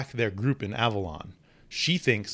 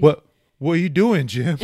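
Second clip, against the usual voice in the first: laughing; 3 semitones higher, 6 dB louder than usual. Acted. Reading the maid panel, laughing.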